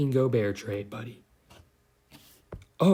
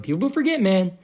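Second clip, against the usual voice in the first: Joe Rogan; 3 semitones higher than usual. Pretend. Basketball rant slips into a light podcast-host impression. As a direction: pitch jumps high on forget, then a laid-back man. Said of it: "I sound like Joe Rogan".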